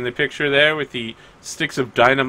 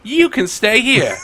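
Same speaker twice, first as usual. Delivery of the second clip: officious doorman; 4 semitones higher than usual. Acted. Guard letting three inside and barring one, officious dismissal. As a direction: lay down the rule, drawing out the exclusion. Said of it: "He's like".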